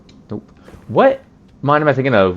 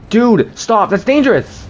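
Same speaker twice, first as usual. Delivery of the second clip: freaked-out yelling; 13 semitones higher than usual. Real, not acted. Streamer yelling at an enemy throwing rocks, high and panicky. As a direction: shriek at him to knock it off.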